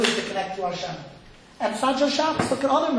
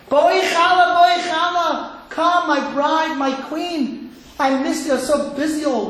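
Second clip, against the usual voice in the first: welcoming call; 4 semitones higher than usual. Acted. Rabbi welcoming Shabbos as his bride, welcoming call.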